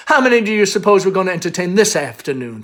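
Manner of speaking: put-on gushing Southern mother, girlish and quick. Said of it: "flounces girlishly".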